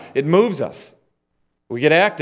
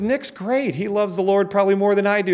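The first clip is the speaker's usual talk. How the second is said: lightly voiced sister, pitched higher; a hint of an eager younger sister, higher up; quoting his sister; 6 semitones higher than usual. Brother retelling his sister's reply, higher and lightly voiced. Preacher quotes sister praising Nick.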